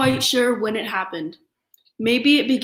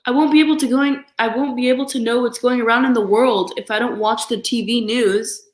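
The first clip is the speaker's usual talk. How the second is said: fast, loud flustered complaint; protesting Papa; 2 semitones higher, 4 dB louder than usual. Acted. Papa argues with Mama about the news, fast and loud. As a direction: rush the objection out in a fluster.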